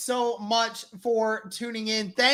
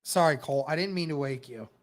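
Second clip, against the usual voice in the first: hushed apology; 9 semitones lower, 5 dB quieter, faster than usual. Real, not acted. Apologizing for yelling.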